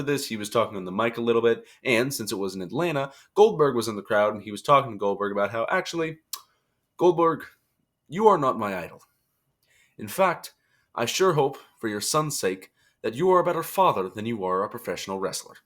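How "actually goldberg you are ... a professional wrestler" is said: lilting, put-on Irish accent; accidental Irish accent. Wrestler taunts Goldberg from the mic, in accidental Irish accent. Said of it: "saying this in an Irish accent".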